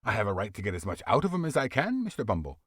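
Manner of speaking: lightly voiced tradesman; undertaker voice. Undertaker bargaining with the beadle, firm voice.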